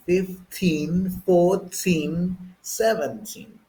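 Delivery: "fifteen, fourteen, seventeen" with clear released T's; slow British "fifteen, fourteen, seventeen", T's emphasized; British crisp T. Shown as a demonstration. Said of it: "They pronounce the T a lot".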